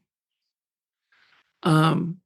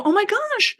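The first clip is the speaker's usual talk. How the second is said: surprised delight; 13 semitones higher than usual. Retold or imitated. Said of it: "you go".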